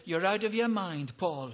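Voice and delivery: an understated shouted accusation; mild shout. Acted. Festus interrupts Paul's defense with a mild shout. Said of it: "And he shouted".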